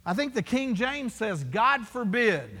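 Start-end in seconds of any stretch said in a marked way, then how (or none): 1.4-2.5 "God forbid" slow and weighty; emphatic. Retold or imitated. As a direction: quote "God forbid" emphatically, each word drawn out. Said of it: "Emphatic. He's emphatic about this".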